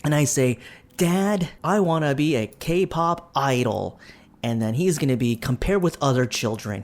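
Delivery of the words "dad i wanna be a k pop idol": put-on child's plea. Voicing child telling father.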